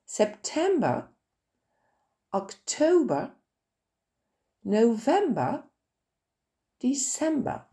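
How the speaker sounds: September, October, November, December each stressed on the second syllable. Shown as a demonstration. Teacher stressing second syllables of English months, clear stress. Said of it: "l'accent tonique cette fois-ci en deuxième wagon".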